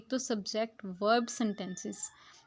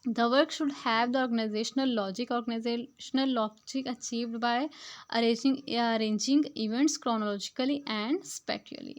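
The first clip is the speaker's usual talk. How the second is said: slow, word-by-word reading of the English text; slow textbook reading; much slower than usual. Shown as a demonstration. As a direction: read each word out carefully to the class. Reads English passage aloud slowly. (धीमी गति से पाठ पढ़ना)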